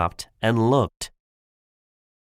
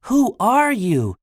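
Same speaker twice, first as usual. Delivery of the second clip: high, insistent question; urgent demand; 11 semitones higher, 3 dB louder than usual. Acted. Po confronts Shen about the red eyes, urgently demanding. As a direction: pitch it way up, demanding.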